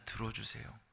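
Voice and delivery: quiet repeated 들어주세요; soft echo. Acted. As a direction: drop to a hush on 들어주세요. Repeated softly as emphasis.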